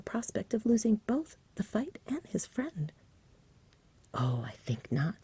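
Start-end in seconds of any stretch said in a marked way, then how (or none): 4.1-5.2 slow, lazy whisper. Acted. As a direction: drawl it unbothered. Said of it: "said the dragon in his lazy way".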